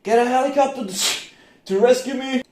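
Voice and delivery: high, loud panicked plea; panicked cry. Retold or imitated. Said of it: "kicking in and screaming".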